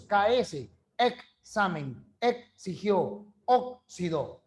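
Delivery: "examen, exigió, oxidó" slowed, x sounded as k plus s; x pronounced KS. Shown as a demonstration. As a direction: stretch each word to let the KS be heard. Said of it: "representa dos sonidos". (x como KS, despacio)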